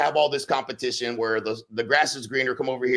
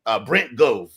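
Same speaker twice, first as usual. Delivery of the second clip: high, eager recruiter hype; mock sales pitch; 4 semitones higher than usual. Competitors luring agents, a lightly mocking high pitch. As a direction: sell them the dream, lightly hammed. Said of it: "We're gonna be like".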